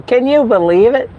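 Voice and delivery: high, laughing, drawn-out amazement; can't believe it, laughing as you say it; laughing disbelief. Real, not acted. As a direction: laugh through the words in disbelief. Amused disbelief at Pizza Hut.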